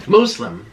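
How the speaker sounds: high, careful MOOS-lim for Muslim; corrected Muslim. Shown as a demonstration. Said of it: "it's Muslim".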